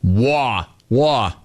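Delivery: mock New York vowels, drawn out; imitated New York caller; mimicked New York accent. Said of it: "You could hear it in his voice".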